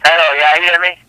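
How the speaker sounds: slips into put-on Jamaican patois; Jamaican accent. Scammer proving he's Jamaican on the phone, put-on Jamaican accent. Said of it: "You want me to talk like a Jamaican?".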